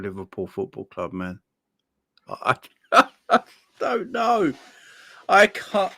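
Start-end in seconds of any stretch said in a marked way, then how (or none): 2.3-5.9 disbelieving laugh. Real, not acted.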